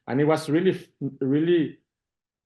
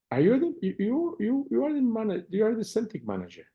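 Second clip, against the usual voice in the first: much higher, stammering, amazed question; starstruck surprise; 11 semitones higher than usual. Retold or imitated. Player recognizing the Celtic manager in a mall, stunned and stammering. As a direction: blurt it out like you can't believe who's in front of you.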